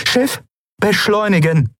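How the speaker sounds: high, firm order; commanding. Acted. Aylan ordering the ship to accelerate, firm. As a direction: give the ship a crisp command. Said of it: "befahl Aylan".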